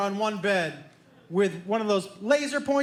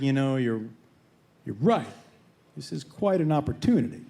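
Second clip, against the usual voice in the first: dawning agreement; 8 semitones lower than usual. Retold or imitated. Conceding to brother's scheme.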